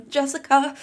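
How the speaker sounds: high, loud sharp call of a name; imitated crone call. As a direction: call her name like a servant. Mimics crone calling his mother.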